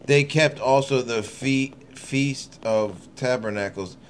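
slow, measured verse reading; unhurried Bible recital; slow scripture reading. Acted. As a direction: read each phrase slowly and deliberately. Reads scripture slowly.

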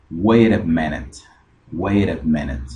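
"Wait a" linked with a tapped R for the T. Shown as a demonstration. Teacher showing the same rule, "Wait a" with T as R. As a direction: run "Wait a" together as "weira". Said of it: "Esa T se convierte en R".

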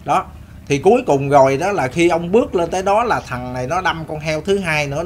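ordinary delivery

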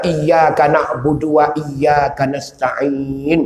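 very slow, drawn-out recitation; Quran recitation. Acted. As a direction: intone the verse with long vowels. (bacaan ayat yang dipanjangkan perlahan)

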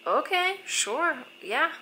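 high, loud rising agreement; surprised acceptance. Retold or imitated. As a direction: act out being pleasantly caught off guard. Retold surprised acceptance of invitation.

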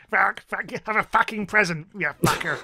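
mock Essex geezer swearing, for a laugh; Essex accent. Joking Essex accent playing Santa moved to Essex. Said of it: "That's my Essex accent".

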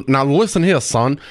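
imitated old Georgia accent; mock old-time Georgia cartoon voice; Foghorn Leghorn. Host shows guest the cartoon's old Georgia accent. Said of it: "but he's like".

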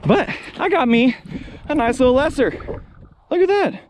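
proud and excited, look at that; gleeful pride. Real, not acted. Hunter holding up his lesser goose, gleeful. Showing his shot bird.

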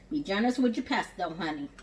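hospitable Southern cooking-show accent; Southern accent, inviting the cook along. Real, not acted. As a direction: slip into a Southern accent, hostess-like. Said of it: "I go into a more southern accent".

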